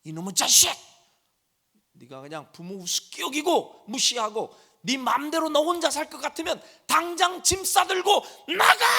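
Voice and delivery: put-on mother shouting at her rebellious teen; angry mother yelling. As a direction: yell like a mom at the end of her rope. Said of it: "엄마가 얘기합니다".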